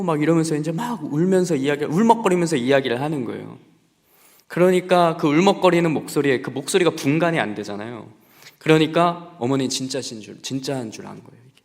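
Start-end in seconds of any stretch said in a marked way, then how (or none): none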